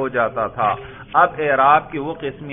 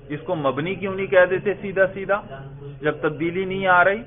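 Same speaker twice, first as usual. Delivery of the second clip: higher, questioning voice, lightly voiced objector; student's objection; 4 semitones higher, faster than usual. Teacher voicing students' likely objection, lightly acted puzzled questioning. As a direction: lightly act a student querying the rule. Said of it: "آپ کہیں گے".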